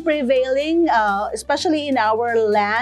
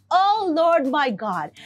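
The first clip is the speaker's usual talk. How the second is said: slow prayerful cry; slower than usual. Retold or imitated. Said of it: "the psalmist says that when he cried out".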